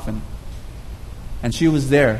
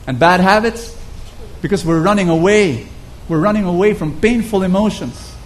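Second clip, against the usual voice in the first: heartfelt preaching. Acted. Preacher urging his listeners to let God heal them, earnest preaching. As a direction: preach it, pressing the point home.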